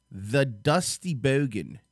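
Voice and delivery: slow, stretched-out announcement; drawn-out intro. Acted. Host introducing the guest video, slow and drawn out. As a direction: drag out the name like a ring announcer.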